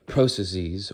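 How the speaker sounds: "processes" ending in a long "-seez"; British-style processes. Shown as a demonstration. Vlogger trying a word heard in videos, "processes" ending "-seez". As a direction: say "processes" with final "-eez".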